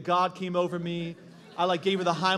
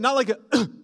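mock cough; 4 semitones higher, 6 dB louder than usual. Shown as a demonstration. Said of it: "not like that".

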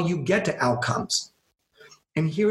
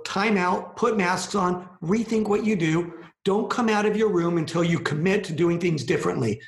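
higher-pitched time-out orders; mock parental scolding; 4 semitones higher than usual. Speaker giving humanity a time-out, mildly scolding. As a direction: lay down the rules like a parent sending kids to their room.

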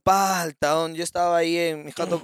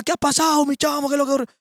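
mock Venezuelan accent; 8 semitones higher than usual. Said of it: "Y los venezolanos que estaban afuera".

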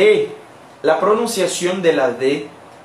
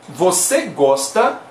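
slow demo; 3 semitones lower, slower than usual. Shown as a demonstration. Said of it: "nosotros podemos decir".

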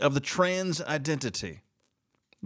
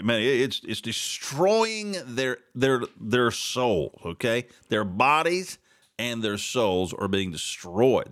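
ordinary delivery

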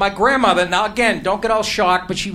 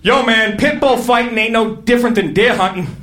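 imitating Marbury; 5 semitones higher, 3 dB louder than usual. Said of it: "and I quote".

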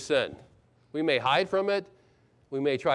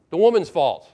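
firm, louder verdict; very definite; 6 dB louder than usual. Acted. Adam suddenly definite in blaming his wife, firm and louder. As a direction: state it loudly as settled fact. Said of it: "Now he's very definite".

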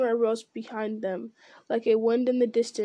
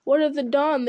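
scornful orc sneer, a bit louder; jeering; 3 semitones higher, 4 dB louder than usual. Acted. Orcs mocking Aragorn's answer about the dawn, scornful jeer. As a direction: throw the question back with contempt. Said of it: "they jeered".

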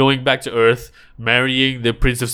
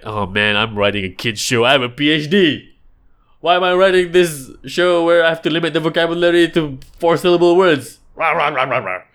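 whiny writer; 5 semitones higher than usual. Retold or imitated. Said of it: "tempting to suggest it's a cop-out".

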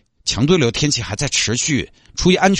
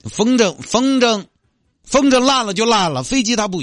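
exasperated; 13 semitones higher than usual. Acted. Agent exasperated high voice.

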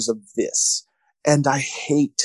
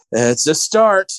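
slow, mock-dramatic movie line; retold dramatic aside to the audience; mock super dramatic; slower than usual. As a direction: draw it out like a portentous closing line. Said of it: "it's supposed to be super dramatic".

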